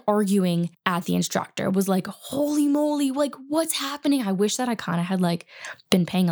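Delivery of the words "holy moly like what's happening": raised, breathless disbelief; like you can't believe your ears; shocked reaction. Retold or imitated. Shocked inner reaction to yelling.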